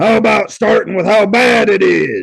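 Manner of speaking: loud, rough, gruff drill sergeant growl. Narrator reading Sarge's question to Jack over the line, growling. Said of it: "Sarge growled".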